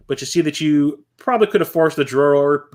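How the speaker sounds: usual speaking voice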